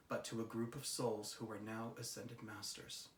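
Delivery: soft, measured read of a solemn message. Real, not acted. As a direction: read it out quietly and evenly. Reads out the channelled message.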